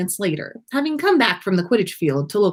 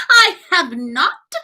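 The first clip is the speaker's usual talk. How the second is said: abrupt denial; 10 semitones higher, 5 dB louder, slower than usual. A narrator's reading. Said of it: "his sing-song voice ending abruptly".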